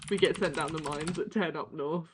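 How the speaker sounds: lightly put-on Yorkshire voice; hint of hard-done-by Yorkshire; Yorkshire accent. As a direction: play at a northern English Yorkshire accent. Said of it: "is that Yorkshire?".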